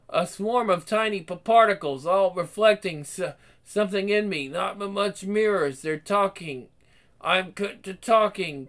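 stammering, frightened, broken phrases; delirious rambling. Acted. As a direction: fight through terror, words falling apart. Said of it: "He's delirious, rambling".

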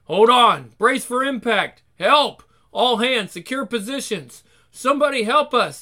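high, loud panic; panicked shouting. Acted. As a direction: yell for help as you crash. Submarine crew falling in panic.

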